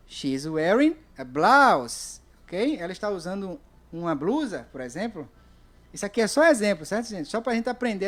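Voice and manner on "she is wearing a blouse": slow model answer. Shown as a demonstration. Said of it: "O que ela está usando".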